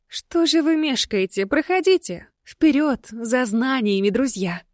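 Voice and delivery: high, eager coquettish lady; ghost voice. Acted. Ghost urges them inside. (высокий кокетливый голос призрака)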